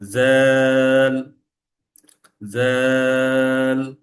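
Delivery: জ্যাল as "zaal", held slowly on one tone; tongue tip to teeth, sustain জ্যাল; long buzzed জ্যাল. Shown as a demonstration. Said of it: "সেটা হচ্ছে". (জিভ দাঁতে লাগিয়ে লম্বা জ্যাল)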